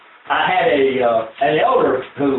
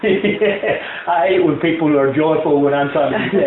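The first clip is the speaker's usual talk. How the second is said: laughing. Real, not acted.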